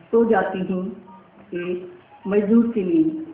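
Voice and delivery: deliberate recital, lifted openings and settling line ends; poem recitation. Acted. Poet reciting her poem of human struggle to the audience, deliberate poetic recital. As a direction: recite it phrase by phrase with spacious pauses.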